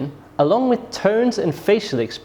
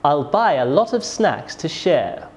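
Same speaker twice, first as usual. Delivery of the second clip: "share" falling at the end; falling statement intonation. Shown as a demonstration. Teacher demonstrates a statement, falling tone on "share". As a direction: let the voice drop on "share". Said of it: "Statements often have a falling tone".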